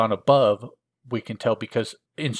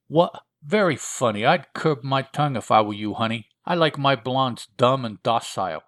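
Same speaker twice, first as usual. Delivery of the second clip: hammed-up gangster accent, pitched up at the start; Ankhl's funny accent; 2 semitones higher, 3 dB louder than usual. Creature answers his captive's wisecrack, funny gangster accent. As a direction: play a wisecracking hoodlum with a comic accent. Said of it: "sorry about the accent".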